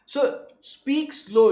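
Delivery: very slow, emphatic instruction; slow, weighty and firm. Shown as a demonstration. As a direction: draw each word right out.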